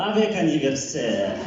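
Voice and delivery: broken French "Avec anniversaire" with a Russian lilt; mock learner error. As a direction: parrot the babushkas' "Avec anniversaire". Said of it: "elles disent".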